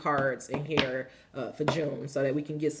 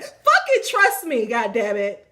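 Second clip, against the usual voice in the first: loud, high, drawn-out command; hammed-up divine order, slow and emphatic; booming voice of God; 4 semitones higher, 9 dB louder than usual. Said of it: "he said it like that".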